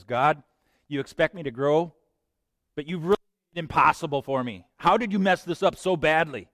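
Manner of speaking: half-playful accusing rant; mock angry prayer. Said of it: "what I really meant was".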